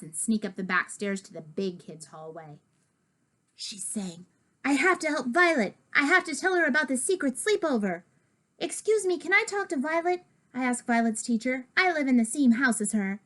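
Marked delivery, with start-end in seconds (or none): 4.6-8.0 higher, hurried urgent voice; urgent resolve. Acted. Narrator deciding to warn Violet, urgent hurried higher. 8.6-10.2 put-on much higher, polite little kid ask; polite request. Narrator asking Violet's teacher, polite higher voice.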